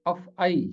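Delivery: अफ़आई ending in an "ee" glide, af-a-ee; careful af-a-EE for अफ़आई; current pronunciation. Shown as a demonstration. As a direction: say अफ़आई with a final long "ee". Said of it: "अब इसे पढ़ा जाता है".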